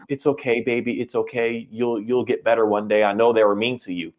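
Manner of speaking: mock-soothe a poor rescue; coddling baby talk. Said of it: "trying to hold it in a sense of".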